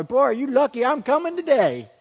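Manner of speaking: mock a proud sinner who thinks God is lucky; cocky sinner. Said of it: "We don't come to the cross and go".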